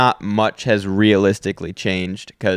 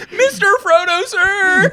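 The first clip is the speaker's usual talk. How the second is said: extremely high, hammed-up British cry; mock hobbit voice; 4 dB louder, slower than usual. Hobbit calling to his master, high mock British voice. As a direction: wail it like a devoted hobbit. Acting a film character.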